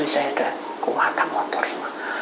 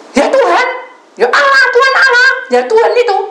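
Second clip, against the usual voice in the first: very high, loud outcry; shouted answer; 9 dB louder than usual. Retold or imitated. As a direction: yell it back as the caller. Caller's shouted answer in story. (meniru jawaban sambil berteriak)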